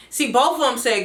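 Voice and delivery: usual speaking voice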